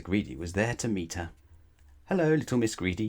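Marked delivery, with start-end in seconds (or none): 2.1-3.1 smiling hello. Acted. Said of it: "he smiled".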